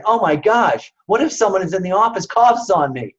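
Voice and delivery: anxious worrying on the way to the doctor; panicked inner voice. Retold or imitated. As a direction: rattle it off like a nervous patient. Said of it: "you're saying".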